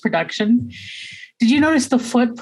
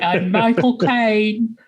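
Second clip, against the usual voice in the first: slow, deliberate attempt at a Cockney accent; slow half-Cockney Caine impression; Cockney Michael Caine; much slower than usual. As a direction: try a Cockney accent and land close. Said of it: "you were so close".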